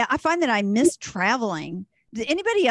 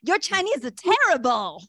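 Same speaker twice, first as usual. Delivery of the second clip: discouraging teachers; 5 semitones higher than usual. Retold or imitated. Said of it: "They would all be like".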